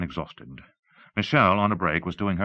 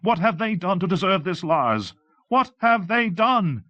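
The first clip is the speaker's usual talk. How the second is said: high, loud, desperate demand; shrieked, anguished challenge; voice rising to a cry; 14 semitones higher, 6 dB louder than usual. Acted. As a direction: cry it out at him, pleading. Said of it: "Her voice was rising".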